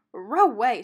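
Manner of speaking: cartoon dog barking. A narrator's reading. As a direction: bark it out like Scooby. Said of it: "Scooby barked".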